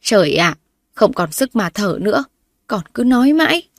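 loud, rising scolding sigh of frustration; wife exasperatedly scolding her coughing husband. Acted. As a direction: nag him out of worry.

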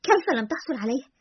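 mild, puzzled disbelief; astonished. A narrator's reading. Friend hearing he did not get the job, mildly astonished. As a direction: ask it with a touch of astonishment. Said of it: "بخليط من التعجب والاستغراب".

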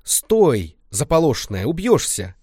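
grandma yells out in alarm; sharp startled shout, pitch jumping up. Acted. Grandma yells at the girl rushing off, startled shout. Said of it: "Бабка от неожиданности заорала".

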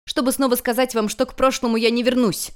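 defiant heroine's cry; outburst. Acted. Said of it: "выкрикнула Юнь-Юнь".

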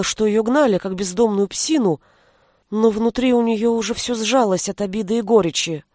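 plain reading voice

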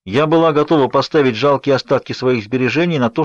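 ordinary delivery

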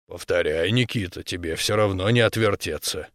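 low, soft bear-man voice; quiet, unhurried elder; calm bear elder. Acted.

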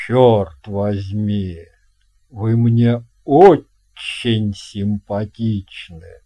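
put-on a hearty old captain welcoming a guest; captain's voice. Captain invites boy. (басовитый голос капитана)

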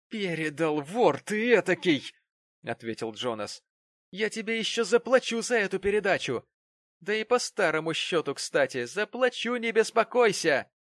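furious threat. Acted. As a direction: spit the threat at your enemy. Jonas furious threatening Tom.

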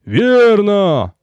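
group roar. Acted. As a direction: roar agreement with laughter. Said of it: "дружный рёв вперемешку со смехом".

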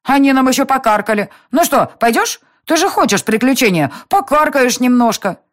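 put-on high, loud eager child voice; coaxing little girl. A narrator's reading. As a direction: tempt a grown-up into an adventure. Irma coaxes Selena.

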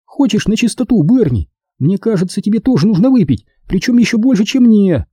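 high-pitched exasperated tipsy woman; Caroline, tipsy and exasperated. Acted. Tipsy woman setting Берни straight about Арчи, high and exasperated. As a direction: lecture in a high character voice, exasperated.

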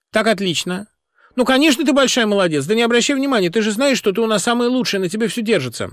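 high syrupy phone voice; sugary sweet. A narrator's reading. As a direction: lay the sweetness on thick. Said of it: "сладким и пышным голосом".

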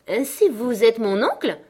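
high, loud delighted discovery; exclaiming. A narrator's reading. Girl greeting her newfound uncle, exclaiming. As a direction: cry it out in pleased surprise. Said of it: "s'écria-t-elle".

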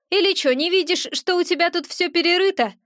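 a hint of the impatient gremlin; scoffing gremlin. Gremlin points out the ransacked room, cheeky.

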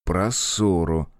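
slow, cautious prompt; gently steer them back to the topic; tentative, drawn-out reminder; careful reminder. Acted. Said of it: "осторожно напомнил".

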